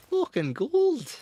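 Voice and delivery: hammed-up triumphant yell; gleeful shout. Real, not acted. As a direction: crow over a perfect shot. Repeats praise bigger.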